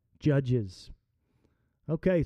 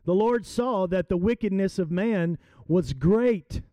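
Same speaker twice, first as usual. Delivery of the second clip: scripture reading. Acted. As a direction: read the verses to the congregation. Reads scripture aloud.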